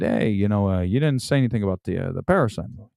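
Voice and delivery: lightly voiced comedian impression; a hint of the comic's storytelling voice; half-hearted take on a stand-up's delivery; Sebastian Maniscalco impression. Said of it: "I might as well finish it like that".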